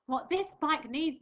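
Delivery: slow, loud, stressing this; emphatic musing. Acted. Missus Armitage planning her bike, slow emphatic musing. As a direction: lean on this thoughtfully. Character's recurring musing line.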